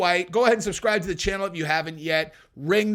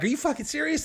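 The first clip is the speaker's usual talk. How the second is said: outraged; 9 semitones higher than usual. Retold or imitated. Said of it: "I'd be like".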